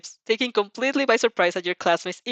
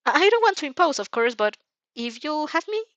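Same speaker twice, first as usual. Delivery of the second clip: shy but stubborn; 7 semitones higher than usual. A narrator's reading. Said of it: "clearly shy, but still stubborn".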